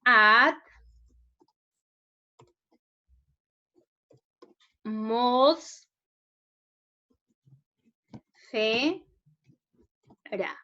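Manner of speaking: At, mos, fe, ra, each alone with long pauses; syllable by syllable. Shown as a demonstration. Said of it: "vayan separando ustedes".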